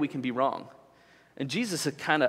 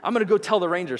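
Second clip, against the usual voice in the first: higher, hurried mock grumbling; retold angry complaint; 5 semitones higher than usual. Boater complaining about the moved buoy, mildly mock-angry. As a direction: imitate a mad boater making his case. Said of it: "he's mad".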